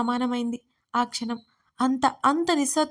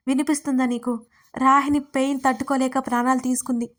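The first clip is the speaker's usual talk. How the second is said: speaking loudly. Acted. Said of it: "నేను గట్టిగా మాట్లాడుతూ".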